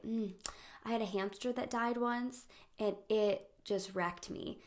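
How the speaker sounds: mildly mock-solemn, slow and halting; slow, self-absorbed mourning, played for laughs; mock grief. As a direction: wallow slowly in a petty loss. Mock-solemn reply to friend's grief.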